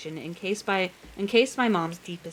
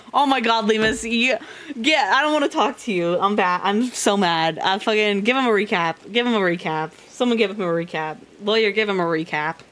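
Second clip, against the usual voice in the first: annoyed; 4 dB louder than usual. Real, not acted. Annoyed at chat commenter.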